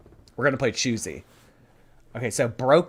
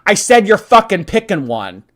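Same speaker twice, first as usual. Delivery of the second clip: mock bossy tyrant; 5 semitones higher, 8 dB louder than usual. Forcing the audience to pick.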